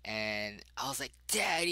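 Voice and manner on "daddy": put-on high, loud joyful cry of a little kid; excited child shout. Little boy seeing dad come home, higher, louder joyful shout. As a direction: call out like a five-year-old seeing dad.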